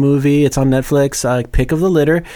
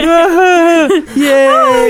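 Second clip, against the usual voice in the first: high squeaky fake yay; a sudden, high, forced cheer; mock cheer; 6 dB louder than usual. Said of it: "So you're like".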